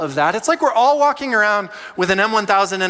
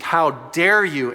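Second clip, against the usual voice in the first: drawn-out how dare you, held in; slow seething indignation; 3 dB louder, much slower than usual. Retold or imitated. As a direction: simmer before going silent. Quiet type's inner reaction.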